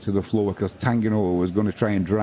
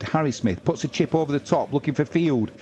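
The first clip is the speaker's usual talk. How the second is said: much higher, rising call; excited play-by-play; 6 semitones higher than usual. Acted. Commentator calling a kick under the posts, excited play-by-play. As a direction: build as the chip lands near the posts.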